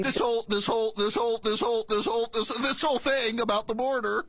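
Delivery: stuck-record mimicry of false starts; mocking repetition. Host parroting her answer on the border, mocking repetition. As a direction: loop the words in mock stammering before finishing.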